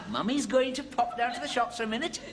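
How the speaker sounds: put-on very high, cooing baby talk to a pet; old lady to parrot. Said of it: "Nothing like an old lady talking to a parrot".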